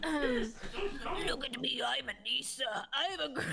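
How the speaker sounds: drawn-out creature voice, breaking off; gremlin voice. Acted. Guest doing a gremlin voice on request, slowly, in gremlin voice. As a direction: put on a slow, silly gremlin. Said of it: "I'll do a gremlin voice".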